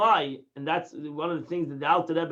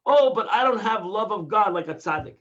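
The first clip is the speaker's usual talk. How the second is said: mock excuse, a touch louder; whiny excuse; 2 semitones higher, 4 dB louder than usual. Teacher mimics a student's excuse, mildly whiny. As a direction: play the self-excusing student, lightly. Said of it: "I cannot say".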